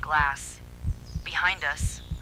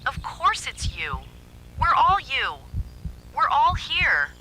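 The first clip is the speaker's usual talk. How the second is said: high, loud, slow, stressing all; eerie creature voice; 10 semitones higher, 5 dB louder, slower than usual. A narrator's reading. The double telling Zoe they are all her, eerie. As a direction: swell into an unnatural chant.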